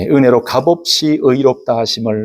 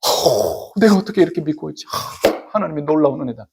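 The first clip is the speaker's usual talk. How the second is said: acted awe; 4 dB quieter than usual. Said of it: "이런 믿음에 대한 이야기를 들을 때".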